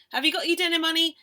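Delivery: mum's voice. Acted. Mum voiced in a story.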